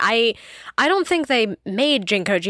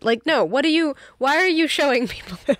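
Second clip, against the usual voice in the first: mock-mortified kid, pitch raised; embarrassed protest; 5 semitones higher than usual. Kid objecting to mom showing baby photos, mock mortified. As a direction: protest in a higher, put-upon voice.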